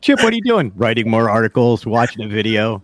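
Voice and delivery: loud call after the cohost. Real, not acted. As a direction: shout out to Chip who left. Calling after cohost who left.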